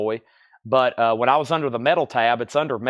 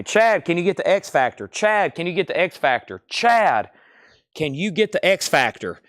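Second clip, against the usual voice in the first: higher, nagging customer voice, repeating the question; imitating pestering customers; 5 semitones higher than usual. Seller mimics customers begging him for a sold-out record, higher nagging voice. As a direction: mimic fans begging over and over. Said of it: "I'll have people ask me".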